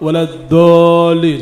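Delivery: الضالين with a thick d for ض; heavy dal. Shown as a demonstration. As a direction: show the error, a rounded dool in الضالين. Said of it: "دال مفخمة". (نطق الضالين بدال مفخمة)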